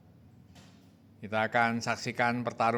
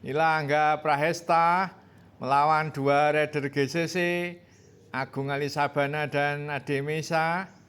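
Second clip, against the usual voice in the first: higher, louder, building to the finish; excited race call; 5 semitones higher, 3 dB louder than usual. Real, not acted. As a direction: ramp up as they sprint home.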